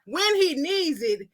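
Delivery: put-on slow, deliberate young woman making her case; Barbara. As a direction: stretch the words out, unhurried. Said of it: "this is what Barbara saying".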